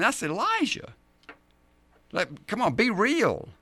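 lightly acted protest from a doubtful believer; mock incredulous objection, jumping up in pitch; objecting listener. A simple follower protesting he is no Elijah, mildly incredulous. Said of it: "But now we ask the question".

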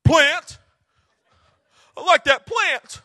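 petulant Jonah pining for his plant; childish Jonah. Acted. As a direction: sulk like a kid over a toy. Jonah whines about plant.

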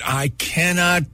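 slow, sincere thanks, a little moved; heartfelt thanks. Real, not acted. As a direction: thank them slowly, from the heart. Thanking colleagues for saving tape.

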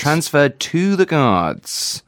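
slow, deliberate TO in "Transferred to the Guards"; stress on TO. Shown as a demonstration. Co-host repeating the corrected phrase, deliberate. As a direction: spell out the correction with a drawn-out TO. Corrects himself after being told.

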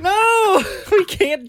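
high squeal through laughter; laughing. Real, not acted. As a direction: protest while cracking up. Laughing protest at pun.

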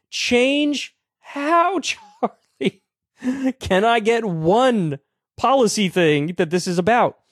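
high, mocking squeal of change how; mocking high question. Real, not acted. Host mocks Kirk's vague demand for change in a high incredulous voice. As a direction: needle him with a high, incredulous voice.

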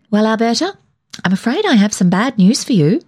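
a hint of relish in bad news; air of importance. A narrator's reading. Molly greets Alberta at the door, mildly self-important. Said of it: "with the little air of importance".

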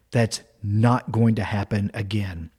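slow, low, controlled vow; a bit tense. Retold or imitated. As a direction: say it slowly with a touch of tension. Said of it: "his voice sounded a bit more tense".

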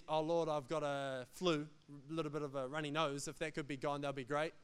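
low, soft, casual mock prayer; half-hearted prayer. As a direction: mumble a small request, no urgency. Imagined half-hearted prayer for a flu.

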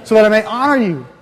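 lightly voiced overly polite child; mock obedient child. Ideal child answering parents, lightly mock sweet. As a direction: play the impossibly dutiful kid, sweetly. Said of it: "you would be".

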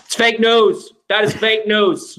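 lightly voiced brash politician; a hint of a boasting president; Donald Trump. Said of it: "How did Donald Trump get the link".

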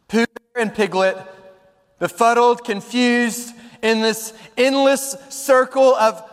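deliberate storytelling with dramatic pauses; story narration. A narrator's reading. Preacher sums up the endless hunt, measured dramatic narration. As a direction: draw out the storybook moral.

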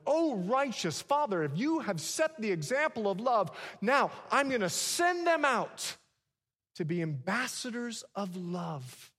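preacher voicing Jesus's prayer, proclaiming at full force; loud preaching prayer. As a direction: cry it out to the Father.

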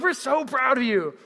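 high, loud proud gush; gushing parental pride. Retold or imitated. Parents giving a big hug, loud gushing pride.

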